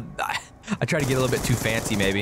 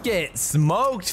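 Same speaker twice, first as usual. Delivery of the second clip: SMOKED stretched out in a gloat; gloating taunt; 3 semitones higher than usual. Real, not acted. Gamer taunting a beaten player, drawn-out gloating. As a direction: draw out "smoked" with relish. Taunt repeated with more force.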